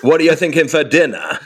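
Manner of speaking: high, loud garage MC hype. Pretend. Asking the family about dinner, garage MC voice. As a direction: domestic question in club MC style. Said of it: "I speak like that garage voice".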